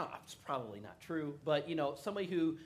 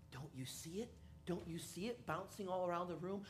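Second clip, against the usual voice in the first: stoned friend; 3 semitones higher, 6 dB quieter than usual. Retold or imitated. High friend quietly insists.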